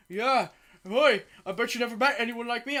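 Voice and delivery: put-on light Cockney accent; a hint of a Cockney bloke. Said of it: "he looked pretty Cockney".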